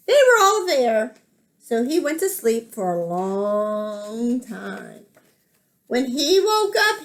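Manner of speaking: animated read-aloud with drawn-out key words; lilting picture-book narration; children's story reading. A narrator's reading. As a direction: tell it to small children, lingering on the details.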